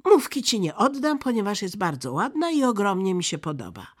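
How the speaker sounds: put-on high, loud, decisive girl; forceful robber girl bossing a friend; bossy robber girl. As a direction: hand out clothes with brisk authority. Robber girl dresses Gerda.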